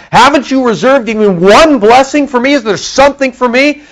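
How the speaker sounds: high, pleading cry of a desperate son; pleading Esau. Retold or imitated. Esau begging his father for a blessing, high and pleading. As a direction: beg for one last blessing, voice up high. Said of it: "he's freaking out".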